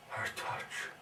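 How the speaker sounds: whispered, broken by long pauses; hushed faltering. Acted. Recalling his wife's touch to the doctor, hushed and faltering. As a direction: breathe each word out softly and haltingly.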